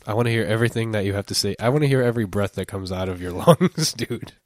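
fast seductive murmur into the mic; sweet nothings. Pretend. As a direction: coo every word at the microphone. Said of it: "like you're seducing it".

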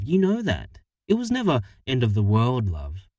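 Harriet voice. Acted. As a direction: reason with him, tired and firm. Harriet voiced explaining herself.

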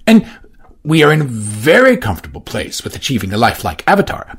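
voiced Johnson. Johnson formally reporting to Edward. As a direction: stay correct and measured.

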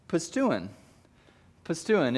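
"pisteuin" said as "puh-STOO-in"; Greek word. Shown as a demonstration. Pastor teaching the congregation "pisteuin" as "puh-STOO-in". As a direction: say "pisteuin" slowly, stress on STOO. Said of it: "he uses the Greek phrase".

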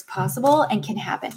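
talking while riding over bumps; on a bumpy road. Real, not acted. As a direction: voice jostled by bumps. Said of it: "oh, sorry about the bumps".

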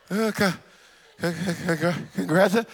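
stammered congratulations. Retold or imitated.

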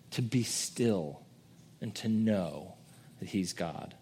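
tender quiet call to rest; hushed invitation. Real, not acted. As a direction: draw them into stillness. Gentle invitation to stillness.

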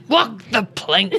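lightly voiced pirate order; a hint of playful pirate. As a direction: give a mild mock pirate command. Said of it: "I said I would do pirate".

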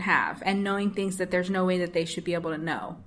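creaky low vocal fry trailing off. Real, not acted. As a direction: sentence fading into vocal fry. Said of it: "I don't like my vocal fry there".

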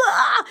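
high-pitched imitated sob; short wail, imitating crying on a run; hammed-up high cry; mock crying wail. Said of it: "yo corriendo y llorando y yo".

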